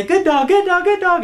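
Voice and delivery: very high, loud, gushing praise; high dog praise. Shown as a demonstration. Praising the dog the moment it sits, very high and loud. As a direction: gush over the dog in a sky-high voice. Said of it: "your voice is really high like this".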